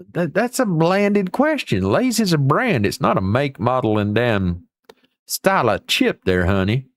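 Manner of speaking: a mock-indignant lecture to the commenter, delivered in a sassy, high voice; sassy put-on voice. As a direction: put on a sassy high voice to set them straight.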